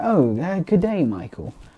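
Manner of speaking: put-on upper-class English butler voice, posh accent. Retelling what a stereotypical English person in a video said: imitating Robert's posh English voice. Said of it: "we don't all speak like this unless it's, like, the really posh people".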